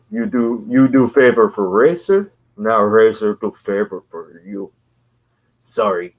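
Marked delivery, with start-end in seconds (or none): 0.1-4.7 put-on lightly done Cuban accent, louder at the start; hammed-up Cuban tough-guy accent, pushed out; a mock Cuban wrestler accent on "favor for Razor"; Razor Ramon voice. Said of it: "I'll read it in my best Razor voice".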